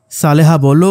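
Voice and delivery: ordinary delivery, nothing marked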